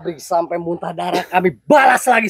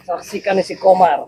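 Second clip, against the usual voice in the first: laughing. Acted. Gloating over the fight.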